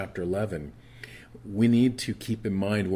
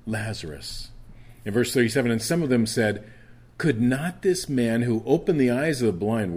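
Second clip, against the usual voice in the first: preaching; 4 semitones higher, 5 dB louder than usual. Acted. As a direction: proclaim the verses to the church. Preaching scripture at full force.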